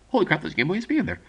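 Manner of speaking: retold amazed double take, rattled out fast; caught by surprise. Teller imitating his friend spotting the prize, caught by surprise. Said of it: "I just genuinely caught him on surprise".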